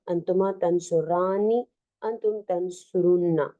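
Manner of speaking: quick sing-song recital of the conjugations; reciting a verb chart. Shown as a demonstration. Teacher reading the chart aloud to students, brisk recital. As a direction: rattle off the table like a drill.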